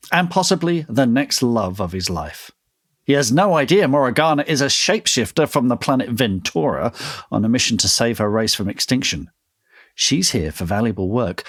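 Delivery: blurb read in a London accent; best London accent, measured and deliberate. Shown as a demonstration. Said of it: "in your best London accent".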